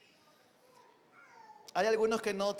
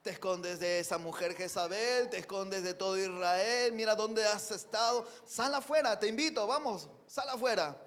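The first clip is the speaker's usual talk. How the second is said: voice of God; 2 semitones higher, 3 dB louder than usual. Acted. God urging Elijah out of the cave, pleading and insistent. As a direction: coax him out of the cave. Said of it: "le dice".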